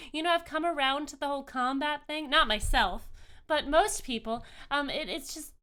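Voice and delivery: earnest high-voiced deity, rambling a little; joyful goddess, earnest. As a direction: reassure and explain, tumbling over the words. Game master voices the goddess.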